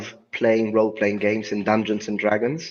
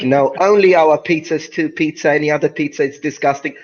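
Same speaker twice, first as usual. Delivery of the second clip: haughty, dismissive Italian pizza snob; mock Italian arrogance; 4 semitones higher, 4 dB louder than usual. Italian mocking pizza snobs abroad, haughty. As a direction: scoff like a proud Italian. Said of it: "we are like".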